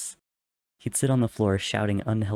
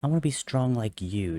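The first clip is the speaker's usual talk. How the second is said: put-on solemn little boy; 6 semitones higher than usual. A narrator's reading. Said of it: "uncharacteristically solemn".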